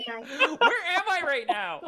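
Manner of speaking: slow, high, loud ditzy wail; mock confusion. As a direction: ham up a lost heroine, laughing. Mocks Jean's helpless confusion.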